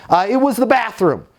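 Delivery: high, exasperated resident voice; mock exasperation, high and insistent; upset resident. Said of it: "current resident that's upset".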